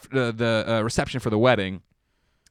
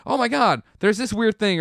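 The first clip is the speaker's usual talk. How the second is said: mock panic; 10 semitones higher, 5 dB louder than usual. Mock panic over a bump.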